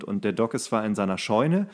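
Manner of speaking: ordinary delivery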